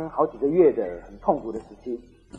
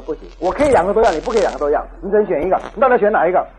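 lightly acted ultimatum, getting louder at the end; insistent husband; 2 semitones higher, 5 dB louder than usual. Husband forcing his wife to choose, mock insistent. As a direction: press the point, mock domineering.

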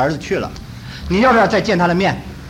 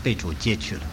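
softer, gently breaking bad news; slow gentle telling; 9 semitones lower, 7 dB quieter than usual. Pastor breaking son's death to grieving mother, gentle and soft. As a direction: ease the news out softly and calmly. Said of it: "我尽量讲得慢，讲得轻".

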